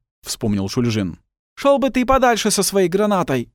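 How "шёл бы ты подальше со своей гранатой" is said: high, loud irritated retort; snapping back. Acted. Karamirzy snapping at Shulzhin about his grenade. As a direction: snap it back at him. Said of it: "огрызнулся Карамирзы".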